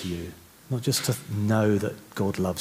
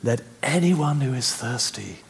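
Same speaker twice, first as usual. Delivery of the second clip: loud voice; 5 semitones higher, 3 dB louder than usual. Retold or imitated. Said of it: "said in a loud voice".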